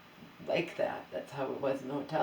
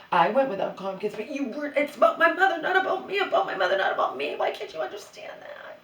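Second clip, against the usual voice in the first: loud, high, shouted protest; heated argument; 8 semitones higher, 8 dB louder than usual. Retold or imitated. Woman shouting at her husband over her mother, furious. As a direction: shout it's about my mother, not me. Arguing with Joe about mother.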